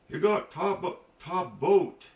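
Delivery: lightly put-on local asking around; mimicking local folks.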